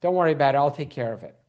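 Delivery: calm him down, ever so gently. Retold or imitated. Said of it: "he ever so gently says".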